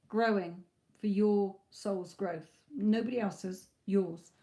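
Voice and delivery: losing her voice, slow and strained; husky, voice giving out; hoarse voice. Real, not acted. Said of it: "Losing my bloody voice here".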